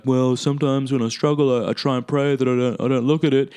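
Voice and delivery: mock hesitant excuse-maker; imitating a feeble excuse. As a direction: play someone lamely justifying themselves. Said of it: "you might be like".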